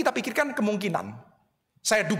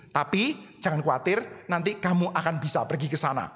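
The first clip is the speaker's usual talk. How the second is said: calm a worried friend; reassuring Jesus; 4 semitones lower than usual. Acted.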